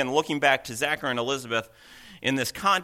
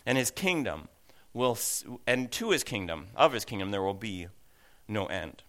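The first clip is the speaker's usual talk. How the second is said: scripture reading; 3 semitones higher than usual. A narrator's reading. Reads scripture aloud to the congregation.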